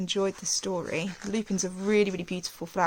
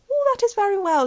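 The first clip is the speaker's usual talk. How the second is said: put-on old aunt's voice; 12 semitones higher, 7 dB louder, faster than usual. A narrator's reading. Old aunt answers little Alice.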